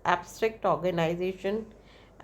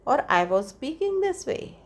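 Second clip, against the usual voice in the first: "I was speaking this way" stated, less high than the question; statement intonation; 5 semitones higher than usual. Shown as a demonstration. Teacher contrasting statement with question, statement intonation. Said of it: "is a statement".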